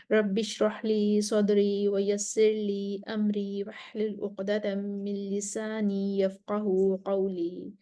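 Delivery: slow, measured Quranic recitation of the opening prayers. Acted. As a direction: recite each phrase slowly and reverently. Recited opening invocation and duas. (آہستہ تلاوت کے انداز میں)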